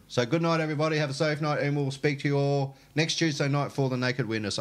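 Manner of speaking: high, cheerful goodbye to viewers; bright sign-off. Real, not acted. Show sign-off.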